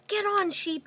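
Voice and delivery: high calling voice to Sheep; animals shouting. Acted. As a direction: call out together. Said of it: "everyone shouted".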